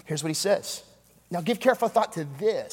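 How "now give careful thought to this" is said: odd playful stress landing on "this"; different emphasis. Shown as a demonstration. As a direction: shift the weight onto the final "this". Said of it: "put the emphasis on a different syllable".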